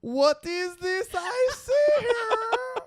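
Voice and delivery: high, slow mock Hispanic yodel accent, laughing; sing-song yodeling with a Hispanic accent; hammed-up yodeling Hispanic accent cracking into laughter. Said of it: "a yodeling accent with a Hispanic accent".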